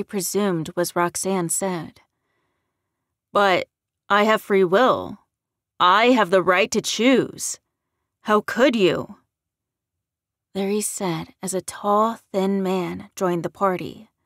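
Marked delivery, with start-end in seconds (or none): 3.3-9.2 loud, emphatic outrage; indignant protest. A narrator's reading. Newly turned Larry to the redhead, indignant. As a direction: protest hard with voice raised.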